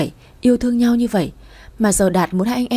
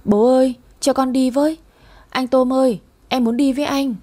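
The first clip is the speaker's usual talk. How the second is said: put-on little girl's voice, higher, on the edge of tears; pitched-up child voice, near tears; whimpering child; 4 semitones higher than usual. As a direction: plead like a small child about to cry. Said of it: "mếu máo nói đi theo".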